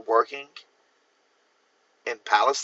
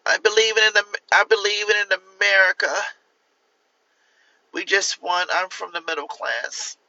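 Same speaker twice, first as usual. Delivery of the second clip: higher, earnest mock stump speech; hammed-up politician promising a better America; Kamala Harris impression; 5 semitones higher than usual. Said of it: "my best impression of Kamala Harris".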